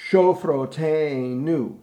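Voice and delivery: slow, stretched Shofroteinu; rhythm demo, no pickup. Shown as a demonstration. Director shows the different last line, slow rhythmic demo. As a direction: start straight on the beat and draw it out. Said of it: "it's a little different rhythmically".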